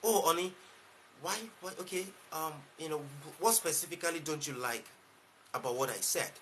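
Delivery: gentle, quiet, patient husband; soft gentle reply. Shown as a demonstration. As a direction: soothe the spouse quietly, no defensiveness. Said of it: "display conversational intelligence".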